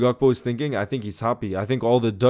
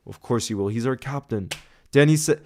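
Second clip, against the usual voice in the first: ordinary talk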